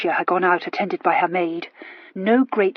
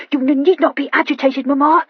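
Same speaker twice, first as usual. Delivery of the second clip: penitent; 6 semitones higher, 6 dB louder than usual. A narrator's reading. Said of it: "told her penitently".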